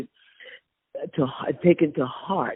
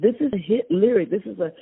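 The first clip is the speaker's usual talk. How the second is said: emphatic; 9 semitones higher than usual. Retold or imitated. Retelling her insistence.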